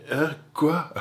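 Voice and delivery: sudden high-pitched baffled huh, what; confused huh what. Pretend. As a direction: play the dazed target who lost track. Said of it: "la cible qui va faire". (étonné et confus, voix montée)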